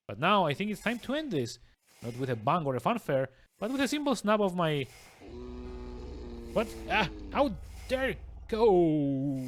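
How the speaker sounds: smug, theatrical villain monologue; a lightly voiced gloating villain. Reads villain monologue aloud.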